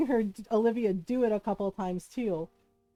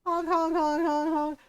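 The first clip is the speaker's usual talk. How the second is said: imitated goose honks, higher pitch; goose honking; 5 semitones higher than usual. Goose answers uncle after dead silence, imitated honking. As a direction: honk repeatedly like a goose. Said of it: "like, angry honking".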